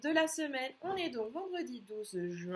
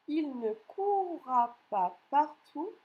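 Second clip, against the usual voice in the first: slow dictation; 3 semitones higher, 4 dB louder, slower than usual. Shown as a demonstration. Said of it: "C'est parti pour la dictée".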